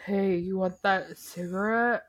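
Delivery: imitating stilted bad acting; lightly hammed fake casualness. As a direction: deliver it like a phoney, stagy actor. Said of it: "being a bad actor".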